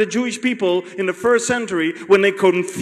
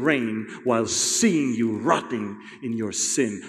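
gentle rebuke; 7 semitones lower, slower than usual. Acted. Jesus explains gently to Peter.

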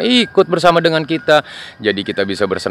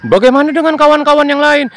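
cheerful little plane, pitched high; high toy plane voice; 3 dB louder, faster than usual. Acted. Plane asks Piku if he likes it, high cheerful. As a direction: ask your friend brightly.

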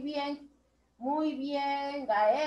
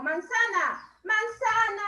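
manzana stretched syllable by syllable; drawn-out syllables; 5 semitones higher than usual. Shown as a demonstration. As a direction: show a long word slowly. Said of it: "Un sonido largo". (alargando cada sílaba de manzana)

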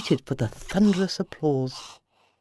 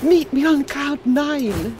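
higher, slow flirting; flirty; 9 semitones higher, 4 dB louder, slower than usual. Acted. Dorothy flirting with Roger while spinning off. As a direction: tease it dreamily. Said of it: "she flirted".

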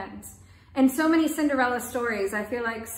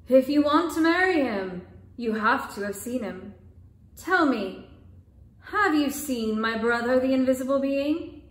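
gently. Acted. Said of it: "very gently now".

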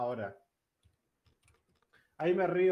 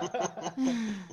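mock evil villain laugh; 5 semitones higher than usual. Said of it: "No queremos escuchar la maldad de eso".

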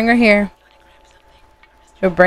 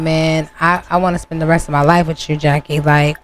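a slightly lowered, understated man's voice; lightly voiced boyfriend; 4 semitones lower than usual. Player voicing Dre pledging his life to Jackie, lightly voiced boyfriend. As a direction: lightly play the boyfriend, pitched down.

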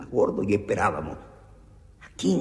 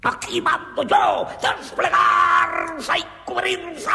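órdenes gritadas; 10 dB louder, slower than usual. Acted. El jefe da órdenes.

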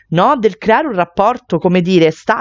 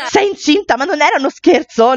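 laughing, higher, in disbelief; disbelieving laugh; 8 semitones higher than usual. Acted. Sister laughs at the pregnancy news, disbelieving. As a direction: laugh it off as a joke.

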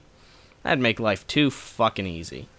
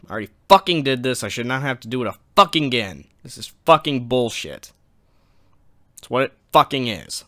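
fed-up rant, hitting the swear words; real anger; 3 dB louder than usual. Real, not acted. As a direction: vent bitter frustration at having to redo it. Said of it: "is fucking anger".

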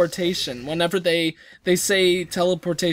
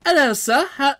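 put-on a weak, half-hearted Irish accent, higher; bad Irish accent; 9 semitones higher, 5 dB louder than usual. Gamer tries an Irish accent for viewers, half-hearted. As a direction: attempt an Irish accent and fail. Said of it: "It goes like, uh, ... Irish accent".

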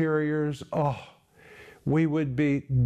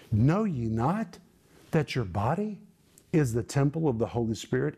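preacher voicing an incredulous Paul; emphatic exclamation. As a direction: press each phrase, pausing between. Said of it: "it is an exclamation".

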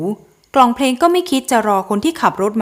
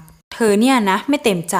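slow, mocking disbelief; sneering; slower than usual. Groom mocks the bride's claim, slow and sneering. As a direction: drag it out with a scornful smile. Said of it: "ยิ้มเยาะคนตัวเล็ก".

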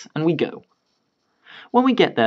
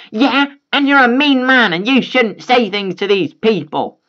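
high, slow whining mother; whiny mom; 9 semitones higher, 4 dB louder than usual. Acted. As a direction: whine it at him. Entitled mom whines.

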